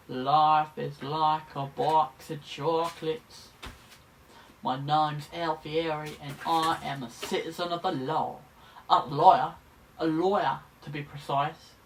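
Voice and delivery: hammy, rough attempt at an American accent; Tom Hanks. Student practising Alfieri's lines, terrible American accent. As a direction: put on a bad American drawl, like an amateur gangster. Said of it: "my best Tom Hanks accent".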